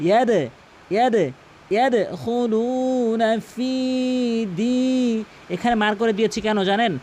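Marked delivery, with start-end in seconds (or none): 0.1-1.3 ইয়াদে with a bouncing echo after d; pushed d. Shown as a demonstration. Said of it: "ধাক্কা দিয়ে উচ্চারণ করবেন". 1.7-5.2 slow chanted ইয়াদখুলুনা ফি দি with long vowels; pushed d. Shown as a demonstration. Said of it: "বলতে হবে".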